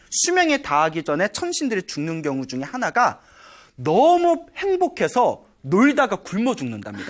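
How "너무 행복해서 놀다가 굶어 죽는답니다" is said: laughing. Real, not acted. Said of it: "그게 경전에 나와요".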